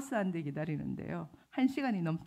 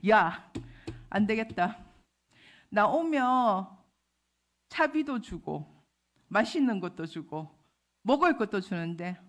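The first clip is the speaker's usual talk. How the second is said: fed-up grumble with loud bursts; mock exasperated outburst; retold seething; 5 dB louder than usual. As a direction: act out boiling frustration at latecomers. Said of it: "속에서 열불이 나더라고요".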